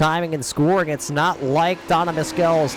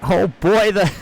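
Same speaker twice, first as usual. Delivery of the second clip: surprised; 3 semitones higher, 4 dB louder than usual. Real, not acted. Another wreck ahead.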